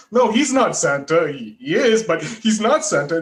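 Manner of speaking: put-on high, loud childish insistence; a little kid insisting, pitch up and loud; mock toddler protest. Nephew insisting his grandpa is not Santa, high and loud. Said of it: "And it's like".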